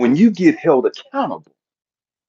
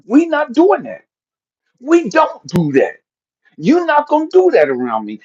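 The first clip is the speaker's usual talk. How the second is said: louder, firmer command; stern dad; 9 semitones higher, 4 dB louder than usual. Retold or imitated. Father checking his sons, stern and firm. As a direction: lay down the rule.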